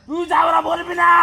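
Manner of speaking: high, loud, furious warning; yelling angrily. Acted. Spirit forbidding exorcist's insult, furious yelling. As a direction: yell it high at full force. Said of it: "বেশি চিল্লাবি না".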